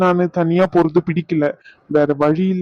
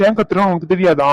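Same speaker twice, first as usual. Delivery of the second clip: irritated demand. Acted. Husband demands wife know why he yells, irritated. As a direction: ask it sharply but still contained. Repeated question, escalating.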